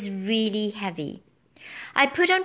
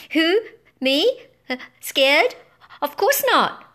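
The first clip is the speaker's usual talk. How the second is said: nervous denial; 7 semitones higher, 5 dB louder than usual. A narrator's reading. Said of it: "I mumbled".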